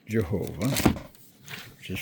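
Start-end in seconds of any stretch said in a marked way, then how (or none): 0.1-0.7 Jehovah with an English J at the start; English pronunciation. Shown as a demonstration. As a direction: say Jehovah as "juh-HO-vuh". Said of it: "Now, in English, they pronounce it".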